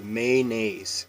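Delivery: Mayonnaise said man-aise, two syllables; Mayonnaise with the middle dropped, man-aise; local pronunciation. Shown as a demonstration. Showing how Washingtonians say man-aise. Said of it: "We just drop the O".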